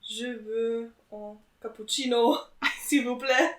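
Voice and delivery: "Je veux un cappuccino, s'il vous plaît" said in French, as asked; "s'il vous plaît" spoken as a French phrase, not English; French on request. Shown as a demonstration. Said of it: "Can you order a coffee for us? In French?".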